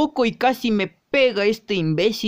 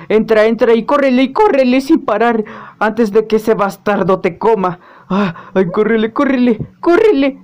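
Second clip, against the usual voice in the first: urgent, louder escape chatter; panicked urging; 5 dB louder than usual. Acted.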